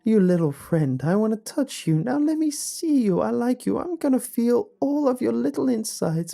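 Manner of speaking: frantic high, loud shriek of obsession; unhinged, high-pitched screaming rant; all-caps shouting. A narrator's reading. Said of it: "in all caps was the following".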